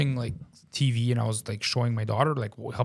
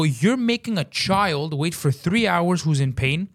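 slow, emphatic retold scolding; worked-up retold complaint; indignant rant; 3 semitones higher, slower than usual. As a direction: scold them for the wait.

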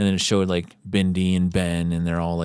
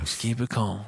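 retold calm; 2 semitones higher, 6 dB quieter than usual. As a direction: softly imitate someone keeping composure. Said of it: "as calm as can be".

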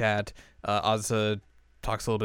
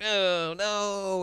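mock refusal; 9 semitones higher than usual. Azusa refusing the cake.

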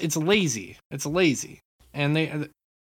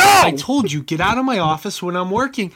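put-on gravelly old tycoon scolding, louder; gruff tycoon dad; 6 dB louder than usual. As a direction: bark it out like a busy old boss.

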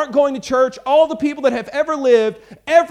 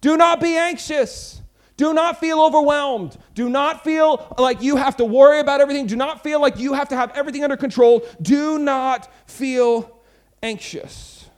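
higher, louder, slow and earnest voice of Jesus; voicing Jesus; 3 semitones higher, 4 dB louder than usual. Preacher voices Jesus comforting the anxious, slow and earnest. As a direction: plead it gently but with force, drawn out. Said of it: "Jesus in that scripture says".

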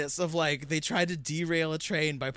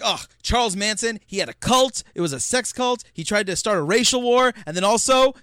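mock oblivious; 3 semitones higher, 6 dB louder than usual. Mocking an oblivious movie line.

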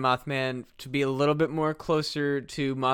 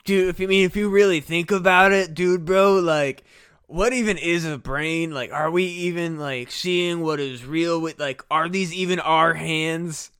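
stoner dude; 2 semitones higher than usual. Pretend. Stoner pondering whether hands are real, mock dazed voice. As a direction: ponder reality like a spaced-out bro.

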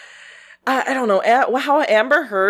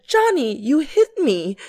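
mock dramatic testimony; 4 semitones higher than usual. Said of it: "I said".

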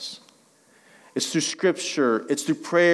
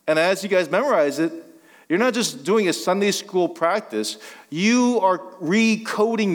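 raised, emphatic sermon delivery; preaching; 6 semitones higher than usual. Real, not acted. Pastor to congregation on memorizing Scripture, emphatic preaching. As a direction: preach it with building conviction.

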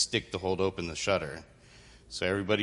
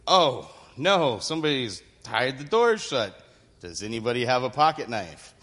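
high, loud hammed-up "oh no"; mock surprise; 4 semitones higher, 5 dB louder than usual. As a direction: play shocked for the kids. Acted mock surprise at tied doors.

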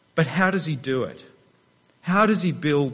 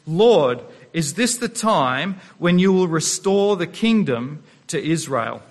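worked up. Retold or imitated. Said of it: "here I'm getting worked up".

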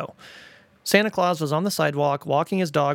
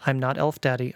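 calm. Retold or imitated. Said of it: "I calmly told him".

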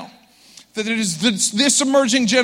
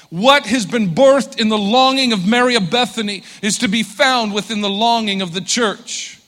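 fervent preaching. Acted. Builds to full-force preaching.

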